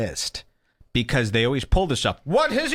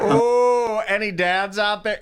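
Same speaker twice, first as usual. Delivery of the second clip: higher, louder hammed-up crowd question; mock comic voice; 9 semitones higher, 4 dB louder, slower than usual. Mocking a comic polling the crowd, loud and high. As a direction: parody a cheap crowd-work line. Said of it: "mocking the comic's crowd question".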